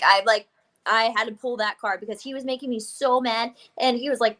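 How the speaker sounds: ordinary delivery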